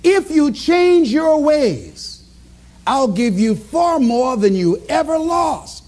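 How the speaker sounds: slow, deliberate promise; inner voice. Retold or imitated. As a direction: give each phrase slow, emphatic weight. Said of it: "the voice also said to him".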